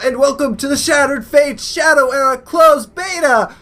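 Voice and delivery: big hype announcer intro. Pretend. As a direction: open it like a game show host. Mock show opening, crowd.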